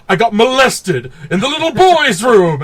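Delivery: high, loud imitation with "molested" punched hard; overdramatic emphasis on molested. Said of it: "What was that fucking delivery? Like, the emphasis on".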